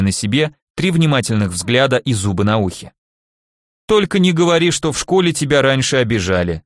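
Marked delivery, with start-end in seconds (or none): 3.9-6.6 sarcastic. Acted. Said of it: "с сарказмом произнёс Михаил".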